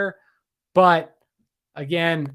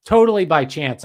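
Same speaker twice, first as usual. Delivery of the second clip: totally punched loud and sarcastic; loud ironic "totally by chance"; sarcastic emphasis; 7 dB louder than usual. Acted. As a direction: sell "totally by chance" with mock conviction. Sarcastic aside about the cult revival.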